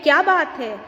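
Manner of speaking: mild exclamation, falling at the end; exclamation reading. Shown as a demonstration. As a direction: read it as a lightly admiring exclamation. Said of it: "इसे हम अलग तरीके से पढ़ते हैं".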